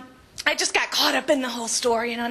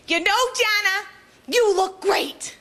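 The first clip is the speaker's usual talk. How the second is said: gushing admirer; 5 semitones higher than usual. Retold or imitated. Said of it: "someone would come up to me and go".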